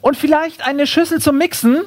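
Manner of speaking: high-pitched call without extra volume; mock calling-out, pitched well up; calling after someone. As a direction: tack on a request as an afterthought call. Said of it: "ruft mir das Känguru hinterher".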